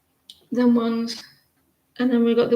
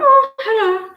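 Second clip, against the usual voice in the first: own greeting, imitated; 11 semitones higher, 6 dB louder than usual. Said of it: "I went".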